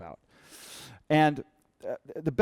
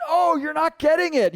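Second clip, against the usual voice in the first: loud, high-pitched frustrated cry; imitating a fed-up brother, much louder; exasperated outburst; 13 semitones higher, 9 dB louder than usual. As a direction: burst out at someone who keeps missing it. Retold brother losing patience.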